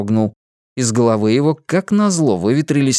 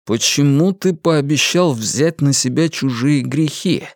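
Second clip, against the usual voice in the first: stern; 3 semitones higher than usual. Acted. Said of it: "строго спросил темноволосый".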